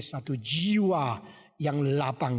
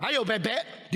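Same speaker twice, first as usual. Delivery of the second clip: lightly raised, teasing threat; mock haunting taunt; 5 semitones higher, slower than usual. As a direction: taunt the little one. Brother taunting the younger with duck.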